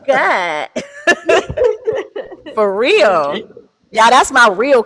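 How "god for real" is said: high, teary laughter breaking through the words; laugh-crying. Real, not acted. Cousin moved by her own praise, laughing through tears. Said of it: "Stop making me cry".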